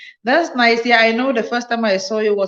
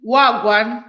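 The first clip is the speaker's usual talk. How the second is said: Jamaican greeting try. Shown as a demonstration. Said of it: "I really want to say what they say".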